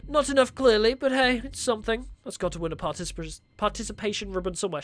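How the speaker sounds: lightly voiced mocking villain; evil villain voice. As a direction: taunt her like a smug villain. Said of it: "My evil villain voice".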